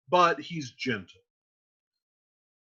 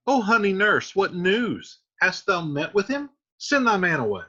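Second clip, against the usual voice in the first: eager Juliet; 4 semitones higher, 4 dB louder than usual. Acted.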